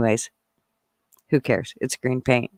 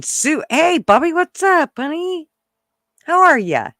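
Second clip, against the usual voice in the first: much higher, sing-song hello; excited greeting; 11 semitones higher than usual. Real, not acted. Greeting Bobby in the live chat, high and excited. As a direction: greet him sweetly and high.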